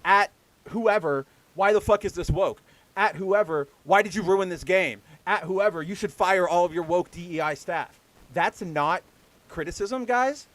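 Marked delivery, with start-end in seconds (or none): 0.1-8.0 loud mock online tirade; mock freak-out. Imitating people shitting their pants at developers, mock outraged. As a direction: rant like an overwrought complainer. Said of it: "just shitting your pants and going".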